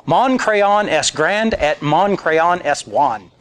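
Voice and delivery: slow textbook French phrase; schoolbook French. Retold or imitated. Diner answers the waiter in slow schoolbook French. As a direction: recite it slowly like a phrasebook. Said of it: "Jonathan comes back and says".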